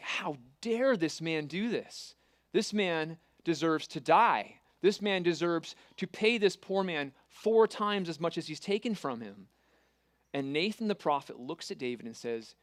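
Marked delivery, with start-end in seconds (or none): 0.0-9.5 slow, indignant outburst, rising toward loud; retelling David's fury with some heat; king's indignant outcry at the rich man's cruelty; outraged. Retold or imitated. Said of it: "he is outraged".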